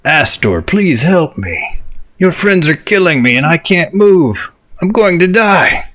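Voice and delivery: a trapped dragon begging for help; smoky dragon breath. Acted. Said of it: "I forgot to hit the voice changer".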